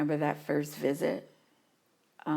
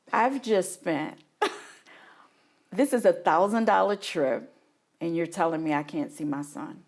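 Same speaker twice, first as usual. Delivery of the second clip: indignant; 5 dB louder than usual. Retold or imitated. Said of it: "I'm like".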